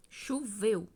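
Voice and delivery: CHOVEU said firmly, ending on a fall; full-stop intonation. Shown as a demonstration. Teacher showing how a full stop ends a phrase, falling intonation. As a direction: close "Choveu" like a finished statement. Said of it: "Ponto final, é, denota um término".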